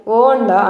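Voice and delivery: వార్న్డ్ said as woɳɖa, no r; silent r. Shown as a demonstration. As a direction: say వార్న్డ్ without the r. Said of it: "దీన్ని ఎలా పలకాలి".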